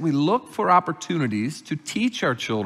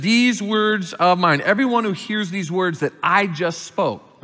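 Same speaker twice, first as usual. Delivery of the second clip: "These words of mine" slow and raised, weight on "mine"; emphatic words of mine; 2 semitones higher than usual. Shown as a demonstration. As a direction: lean hard on "mine". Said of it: "this word in the Greek is emphatic".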